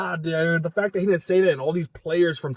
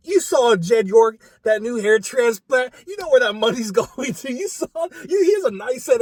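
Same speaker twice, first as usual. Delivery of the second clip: heated rant; 6 semitones higher, 6 dB louder than usual. Real, not acted. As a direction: hammer the point home, fired up. Ranting about owner's hair transplant.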